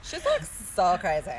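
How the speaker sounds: slow, drawn-out California accent; valley girl California accent. Shown as a demonstration. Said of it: "I can do the California accent".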